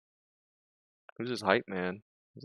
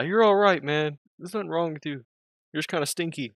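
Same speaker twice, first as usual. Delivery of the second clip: mock reassuring; 6 semitones higher than usual. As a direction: talk him down gently, teasing at the end. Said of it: "reassure the guy".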